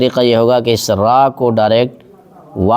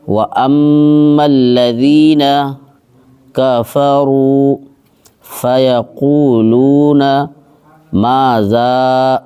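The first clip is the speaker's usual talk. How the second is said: slow, drawn-out tajweed chant; Quran recitation; much slower than usual. Shown as a demonstration. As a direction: recite each word long and measured. (تجوید کے ساتھ آہستہ تلاوت)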